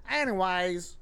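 anyways drawled Texas style, "Anyways" with a long country drawl; country talk. Shown as a demonstration. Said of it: "like, country talk".

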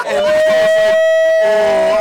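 high, loud startled cry; shocked outburst. Retold or imitated. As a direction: blurt it out in disbelief. Stunned reaction to old man.

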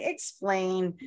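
slow, drawn-out plea for an explanation; confused plea. Retold or imitated. Wife asking her paralegal husband to explain legal documents, confused plea. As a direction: drag it out like a baffled layperson, mock-helpless. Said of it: "I go to my husband".

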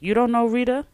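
put-on playful London-accented rap quote; imitating a London rapper. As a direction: quote the rap line in a light London lilt. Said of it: "with his accent".

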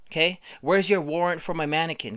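hammed-up shouting fit over mannequins; mock furious rant. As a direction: bellow at her like she broke the law. Acted rant demanding a permit.

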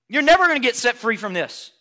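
loud, high-pitched condemning shout; condemning inner voice. Acted. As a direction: hammer it home like an accusing voice. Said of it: "don't listen to that voice that says".

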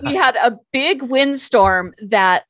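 laughing a little, stretching the words; amused restart. Real, not acted. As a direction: pick the story back up through a chuckle, drawn out. Restarts story after laughing at herself.

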